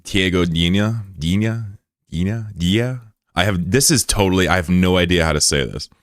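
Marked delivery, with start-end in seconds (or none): 0.0-3.0 Dina tried over and over with rising doubt; guessing pronunciation. Shown as a demonstration. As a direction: fumble through Dina several ways. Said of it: "How would you say this?".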